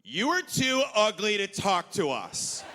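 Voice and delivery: dismissive woman sneering at a comedian; haughty woman. Retold or imitated. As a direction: put him down slowly from above. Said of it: "she immediately said".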